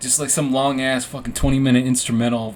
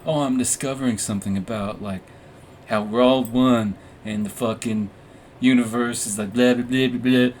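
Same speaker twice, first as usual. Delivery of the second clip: mock introspective. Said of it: "like, some cool, like, introspective".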